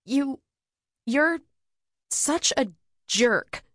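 high, slow would-be threat; menacing voice. Acted. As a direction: try to sound menacing, drawn out. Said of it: "I said in my most menacing voice".

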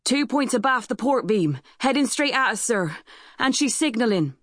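high-pitched sailor's report; lookout calling down. A narrator's reading. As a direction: call the sighting down to the captain. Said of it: "a shout came from the lookout".

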